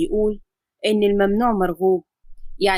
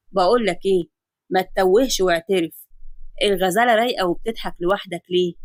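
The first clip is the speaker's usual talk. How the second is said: a lower, joking pal's voice; teasing buddy; 3 semitones lower than usual. Acted. Colleague teasing Adam about smiling alone, lower bantering voice. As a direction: rib your friend about his grin.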